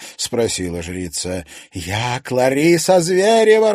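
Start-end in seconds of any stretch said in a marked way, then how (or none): 1.7-3.7 loud, high, drawn-out shout; slow, ringing yell; answering cry. A narrator's reading. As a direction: cry it out as a defiant announcement. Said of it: "раздался в ответ крик".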